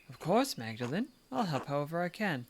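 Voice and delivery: put-on a light, lightly cockney British accent on the nun's line. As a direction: voice the sister with a hint of British cockney. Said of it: "I don't know why I'm going British".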